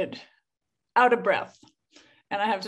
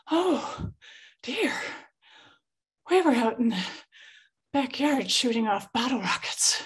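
breezy mother; 3 semitones higher than usual. Retold or imitated. Mother answering, quoting her.

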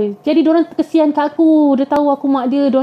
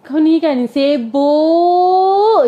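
drawn-out grumble; much slower than usual. Acted. Jinn grumbling at healer.

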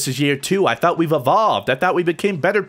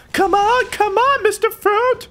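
much higher, louder, urgent; excited high call; 3 dB louder than usual. Real, not acted. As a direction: call out eagerly to the teammate. Urging teammate, high call.

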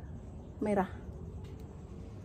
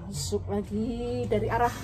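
live commentary; 2 semitones higher, faster than usual. Pretend. Play-by-play of mock football.

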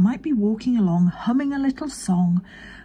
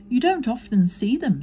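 careless; 6 semitones higher, 4 dB louder than usual. A narrator's reading. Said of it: "said Christopher Robin carelessly".

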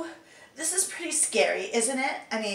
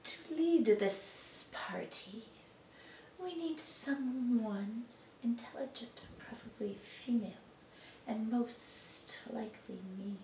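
quiet smug aside; 9 dB quieter than usual. Acted. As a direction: savour every word smugly. Voice actor trying line takes.

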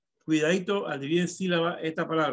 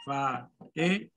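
FA, E, NA in separate beats; slow syllable by syllable; 4 dB quieter, slower than usual. Shown as a demonstration. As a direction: spell out Fa, e, na slowly, pausing between syllables.

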